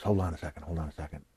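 low, soft mumble of a stagehand; hushed retold request; quiet imitated aside. Backstage voice murmuring to the wrestler, soft and low.

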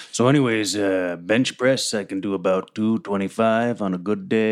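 casual boasting about lifting; low gym bro. Acted. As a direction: Ranger chatting to the badger about bench press. Player voices Ranger.

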